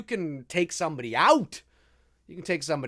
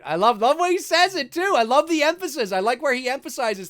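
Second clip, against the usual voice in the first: high, loud fan excitement; real, bursting delight; gushing enthusiasm; 8 semitones higher, 6 dB louder than usual. Real, not acted. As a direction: gush over your favorite line. Gushing over a favorite line.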